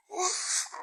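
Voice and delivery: high, loud, breathy hi; mock chirpy hi. Mocking the woman greeting him on the hill, high and loud. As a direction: ham up her fake-friendly hello. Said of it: "this bitch was like".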